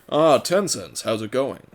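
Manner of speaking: lightly voiced American leader; a touch of gravelly authority; commanding American. Shown as a demonstration. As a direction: greet with easy command. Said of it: "to be commanding, and you can do that with an American voice".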